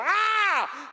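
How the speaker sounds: sudden high shout of Ah; preemptive shout. Shown as a demonstration. Demonstrating his habit, a sudden high Ah shout. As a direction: yelp it out to scare off a punch. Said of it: "preemptively shouting".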